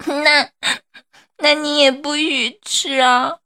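whimpering, tearful demand; tearful pouting. Acted. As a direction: sniffle through a sulky plea. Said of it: "咱们不哭了好不好？".

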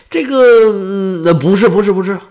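flustered denial. Acted.

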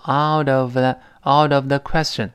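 "out of the" run together as one unit; linked pronunciation. Shown as a demonstration. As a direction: join "out of the" without gaps, demonstrating for learners. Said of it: "我们注意这个连读".

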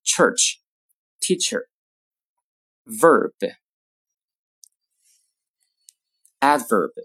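slow isolated words, long er in "church, verb", weaker er in "teacher, adverb"; stressed versus weak vowel. Shown as a demonstration. Teacher repeating the stress contrast, slowly, er shorter in "teacher, adverb". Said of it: "而teacher的er在弱读音节中".

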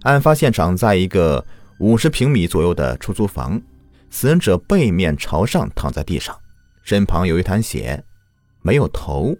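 steady, grave case narration; true crime narrator. A narrator's reading. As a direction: tell the case like a crime podcast.

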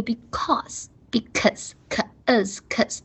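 because slowly reduced to a "cuz" sound; slow drill of weak because; weakened vowel. Shown as a demonstration. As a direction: correct because to a schwa, cause as "cuz". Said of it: "轻读成呃的音".

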